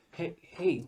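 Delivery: high, put-on mocking voice; stupid-ass voice. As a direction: mimic him in a silly high voice. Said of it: "He didn't say it like that. He said".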